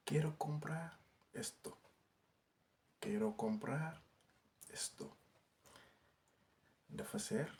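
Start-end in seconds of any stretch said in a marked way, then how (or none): 3.0-5.1 a slow repeat for learners to copy; slow careful repeat. Shown as a demonstration. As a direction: say Quiero comprar esto again slowly, each word clear. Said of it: "teacher repeats the phrase slower". (waxaat ko ndànk ndànk)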